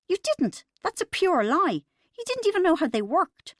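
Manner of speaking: very high, piercing furious denial; shrill enraged wife shouting him down. A narrator's reading. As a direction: screech it at him, outraged. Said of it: "her voice unexpectedly shrill".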